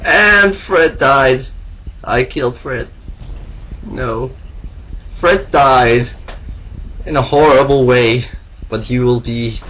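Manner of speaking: slow, hammed-up funeral tone; mock solemn eulogy. Gamer mourning teammate Fred as a soldier, mock solemn. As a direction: pretend to mourn a fallen soldier.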